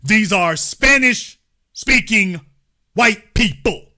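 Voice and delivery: slow, separated beats, weight on WHITE; hammering it home. Real, not acted. Hammering the point home to listeners, emphatic. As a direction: pause before WHITE and drive it in. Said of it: "trying to hammer home".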